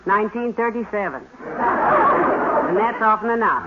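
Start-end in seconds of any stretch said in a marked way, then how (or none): 1.5-3.7 slow, dry tease with a chuckle; laughing tease. Acted. Wife teasing husband about breakfasts, slow chuckling tease. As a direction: rib him gently, laughing it out.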